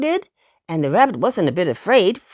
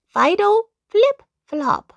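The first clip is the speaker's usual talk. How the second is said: high, bright little-dog cry; poodle exclaiming; 11 semitones higher, slower than usual. A narrator's reading. Poodle dog finishing tricks for the rabbit, high and proud. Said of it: "was the answer".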